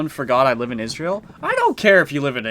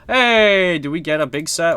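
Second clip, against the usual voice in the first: loud, high mock-angry "hey"; kidding outburst of anger; mock mad; 5 semitones higher, 6 dB louder than usual. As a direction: shout it in pretend outrage. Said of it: "Imagine if I was that mad".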